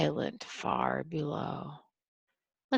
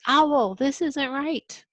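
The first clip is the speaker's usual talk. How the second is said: rat voice; 8 semitones higher, 5 dB louder than usual. Acted. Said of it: "and he says".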